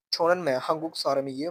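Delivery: teacher modelling Korean; Korean phrase. Shown as a demonstration. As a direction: model the Korean words for learners. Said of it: "अगर किसी सवाल करेंगे तो आप इस तरह कहेंगे".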